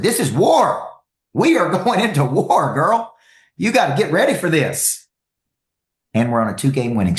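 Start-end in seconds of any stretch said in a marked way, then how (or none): 0.0-5.0 rally the troops like a drill sergeant; hammed-up war cry. Coach telling his wife T-ball is war, hammed-up high yell. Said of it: "And I said".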